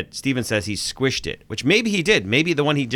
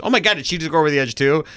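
quick, higher-pitched mock alarm; retold shock; 4 semitones higher, faster than usual. Host quoting Debbie as she watches the fall, retold shock. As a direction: imitate a startled viewer, words rushing out. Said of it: "Debbie also goes".

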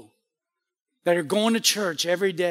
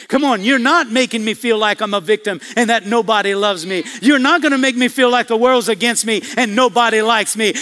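defiant declaration; 4 dB louder than usual. Shown as a demonstration. Models resisting the devil.

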